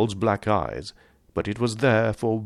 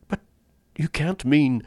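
higher, aghast disbelief; shocked gasp; 8 semitones higher than usual. A narrator's reading. Rainsford balks at the General's hint, aghast. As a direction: stop short in dismayed disbelief. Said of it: "gasped Rainsford".

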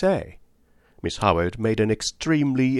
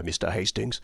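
softer, hushed voice on Mister Hastings; sunken to a whisper; 2 semitones lower, 7 dB quieter than usual. A narrator's reading. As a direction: drop to a confiding hush. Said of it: "sank her voice to a whisper".

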